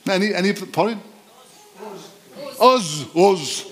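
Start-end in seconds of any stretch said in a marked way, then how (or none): 2.6-3.7 Us, us, hammered out; stressed Us repeated. Shown as a demonstration. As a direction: punch Us. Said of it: "Did I say that?".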